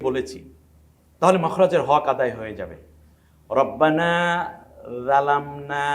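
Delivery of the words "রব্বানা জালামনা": জালামনা starting on the Arabic zal sound. Shown as a demonstration. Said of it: "কোন অক্ষর দিয়ে? রাল দিয়ে বলেছি".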